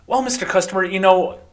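smooth a customer over overdraft fees; bank rep voice. Retold or imitated. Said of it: "how do they talk their way out".

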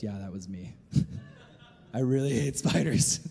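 chuckling through the man's admission; laughing confession. Retold or imitated. Man admits to police he screamed, laughing. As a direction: laugh while confessing the scream was his. Punchline of spider story.

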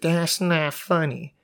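slow, prim disapproval; mock prissy scold. Mocking the lady again, slow and prim. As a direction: stretch it out primly. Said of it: "You gotta be like".

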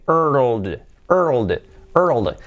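"world" built as er-ol-d without clear w; sound-building drill. Shown as a demonstration. Teacher assembling the sounds, pronunciation drill. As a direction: run r, dark l, d together in "world". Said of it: "er, y una D".

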